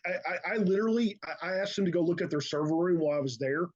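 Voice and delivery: talking around a cough drop; mouth full. Real, not acted. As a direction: speak with a lozenge in your mouth. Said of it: "I've got a cough drop in my mouth".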